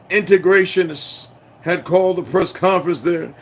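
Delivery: steady news-report reading; newspaper read aloud. Acted. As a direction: read the old article out like a report. Reads newspaper article aloud.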